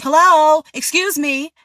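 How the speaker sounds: "excuse me" high and pushy; demanding customer. Retold or imitated. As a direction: snap "excuse me" up high like a rude guest. Guest calls, server replies.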